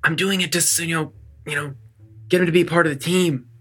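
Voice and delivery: whispered aside. Speaking aside to a party member about another character: whisper. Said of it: "a whisper and be like".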